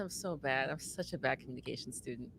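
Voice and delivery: tired, drained delivery; exhausted. Shown as a demonstration. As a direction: sigh it out like you're worn out. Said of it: "like I'm exhausted".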